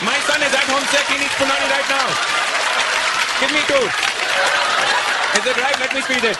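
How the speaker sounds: high-pitched Indian dad demanding at the shop; imitated Indian dad. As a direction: play the dad calling out in a high voice. Acts his dad at the store.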